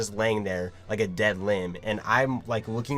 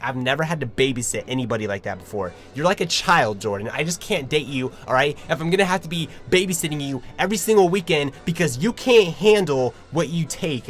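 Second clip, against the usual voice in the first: louder, higher, fast scolding rant; angry girlfriend; 4 semitones higher, 5 dB louder than usual. Retold or imitated. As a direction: imitate her telling him off. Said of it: "She was pissed off".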